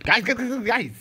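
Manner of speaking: loud, high urgent calling out; high excited shouts; shouting. Real, not acted. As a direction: yell for the viewers' attention. Shouts to viewers in shock.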